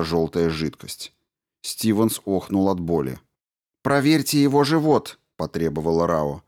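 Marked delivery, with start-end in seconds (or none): 3.8-5.2 higher, firm voice of the commander; commanding woman. A narrator's reading. Commander Rao orders the crew over the radio, firm and high. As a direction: give the order crisply.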